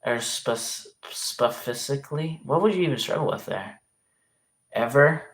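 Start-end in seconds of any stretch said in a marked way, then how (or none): 1.1-2.4 "specifically" stumbled as spuh-FIS-ik-lee, s and f swapped; guessed mispronunciation. Shown as a demonstration. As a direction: muddle "specifically" into spuh-fissically, questioning. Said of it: "What do you say".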